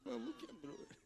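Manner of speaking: slow, drawn-out cooing father, ending in a squeak; mock fussy father. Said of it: "એનો husband". (બાળકને લાડ કરતા પિતાની નકલ, ધીમું અને લંબાવીને)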